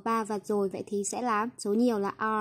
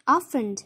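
"often" with the first syllable stressed, then falling; teacher's model of "often", stressed up front; 3 dB louder than usual. Shown as a demonstration. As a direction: hit the start of "often" and let it drop. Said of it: "đánh trọng âm vào âm tiết thứ nhất".

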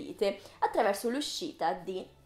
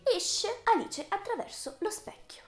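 half-whispered, high and suspenseful; hushed ominous reveal; 9 semitones higher than usual. Pretend. Vlogger revealing the film that flopped, hushed ominous reveal. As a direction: whisper the title like bad news.

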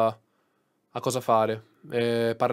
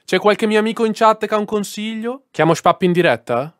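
higher, louder, asking chat for help; overwhelmed and looking for rescue; flustered appeal; 7 semitones higher, 5 dB louder than usual. Real, not acted. Streamer asks his friends in chat for advice, flustered.

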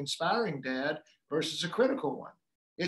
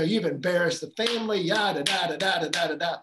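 mock lecturing; 3 dB louder than usual. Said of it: "I would have been lecturing".

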